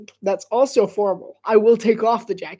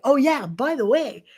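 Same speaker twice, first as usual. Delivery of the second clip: commercial guy; 5 semitones higher than usual. Retold or imitated. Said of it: "he's like".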